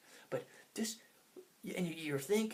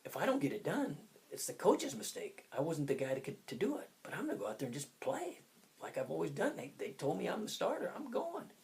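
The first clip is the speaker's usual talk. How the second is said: excited confidence; 4 semitones higher than usual. Retold or imitated. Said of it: "I go".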